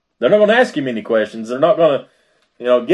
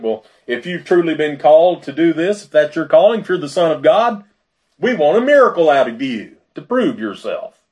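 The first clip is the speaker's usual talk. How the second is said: challenging demand; 4 semitones higher than usual. Acted. Jewish leaders to Jesus demanding a miracle, challenging. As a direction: press them hard for proof.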